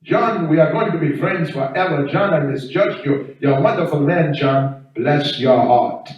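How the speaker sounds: heartfelt thanks in a put-on African accent; grateful African neighbor. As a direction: imitate an African-accented neighbor declaring friendship. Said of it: "first thing he says to me".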